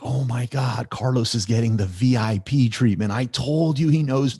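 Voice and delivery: lightly acted awe at special treatment; imitating amazed onlookers. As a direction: gossip excitedly, retelling what the group said. Retells travel group's envious amazement.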